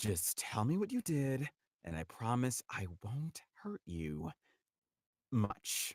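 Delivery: caring tone turning sadistic. Performing a character's line, caring turning sadistic. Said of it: "caring tone, but the final words jump into a sadistic territory".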